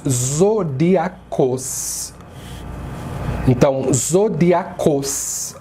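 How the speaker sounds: zodíacos drawn out, stress on dí; slow Greek stress. Shown as a demonstration. Teacher demonstrates the stress in zodíacos slowly. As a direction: say zodíacos as zo-DÍ-a-cos. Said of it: "o acento está nessa sílaba".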